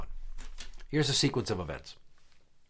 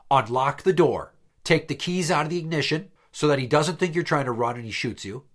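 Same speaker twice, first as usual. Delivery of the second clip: exasperated shouting; 4 semitones higher, 4 dB louder than usual. Retold or imitated. Yelling at ex over speakerphone.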